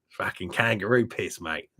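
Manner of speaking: lightly put-on Aussie accent; imitated Australian accent. Picturing an Australian slagging off lager, mock Australian accent. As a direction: imitate a blunt Australian local. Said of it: "his Australian accent".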